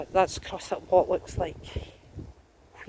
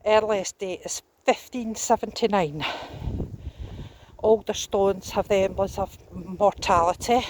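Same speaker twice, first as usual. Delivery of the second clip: breathless after a steep climb; puffing between phrases; out of breath; 4 dB louder than usual. Real, not acted. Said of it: "I'm totally out of breath after walking up that hill".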